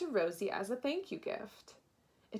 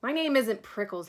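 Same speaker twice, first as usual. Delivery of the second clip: yelled back; 5 dB louder than usual. Acted. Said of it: "Hank yelled back".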